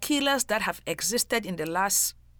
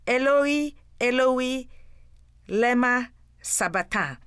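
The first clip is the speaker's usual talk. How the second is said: raised, higher voice for a quoted cry; mild crying out; 4 semitones higher, 4 dB louder than usual. A narrator's reading. Preacher reading Jesus' cry from the cross, mildly cried out. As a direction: lift it into a measured cry, louder at first. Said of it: "cried out in a loud voice".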